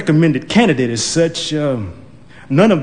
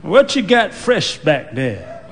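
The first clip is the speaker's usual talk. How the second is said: put-on slow, probing old lady; suspicious old woman; slower than usual. Old woman grilling the donut clerk, slow and suspicious. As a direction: drag it out, sizing him up.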